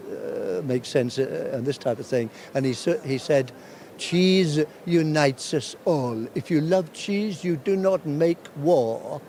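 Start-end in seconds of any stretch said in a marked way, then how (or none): 4.0-9.2 lightly imitated halting English, slow; a French guild master's stage speech, slowly, in lightly mimicked broken English. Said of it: "his English is not great".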